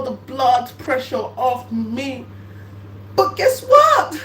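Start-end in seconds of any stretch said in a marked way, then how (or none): 3.1-4.2 much higher, louder guess what; shouted tease. Acted. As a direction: burst out teasing.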